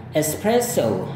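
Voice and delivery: espresso ending in an ou glide, British English. Shown as a demonstration. Teacher demonstrates British espresso for comparison. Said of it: "itu gaya British".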